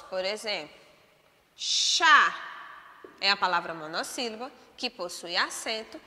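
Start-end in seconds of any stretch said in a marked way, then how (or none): 1.6-2.4 "chá" loud, higher, with full stress; stressed monosyllable. Shown as a demonstration. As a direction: punch out "chá" as a strong single syllable. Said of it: "quando eu falo em monossílabos". ("chá" tônico, forte e mais agudo)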